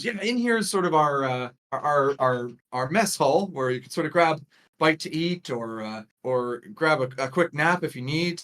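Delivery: hint of an easygoing host; casual tour guide. Guide showing visitors the mess hall, casual. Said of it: "And she says".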